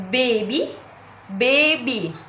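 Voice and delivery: put-on "baby" with the weight on BA; stress on first syllable. Shown as a demonstration. Teacher giving an example to viewers, BAby stressed up front. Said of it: "stress on first syllable".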